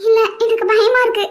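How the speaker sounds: wife in tears asks husband to come home; tearful plea. Acted. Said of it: "இப்ப எதுக்கு அழுதுட்டு இருக்க".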